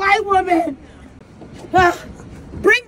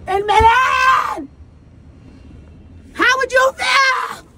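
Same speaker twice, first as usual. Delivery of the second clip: slow, rising mock outrage that ends in a shout; mock outraged victim; 3 semitones higher, slower than usual. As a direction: complain like a wronged celebrity, building to a yell. Plays a tourist attacked in Milan.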